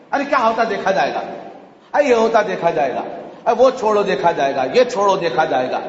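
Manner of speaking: quick, offhand brush-off; mimicked careless dismissal. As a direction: rattle off excuses as if nothing matters. Mimics people's careless excuses. (لاپرواہی سے ٹالنے کی نقل)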